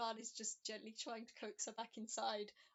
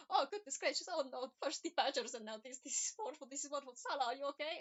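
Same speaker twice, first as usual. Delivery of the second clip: fretting Vlad; 3 semitones higher, 5 dB louder, faster than usual. Acted. Vlad fretting over hurt Salah.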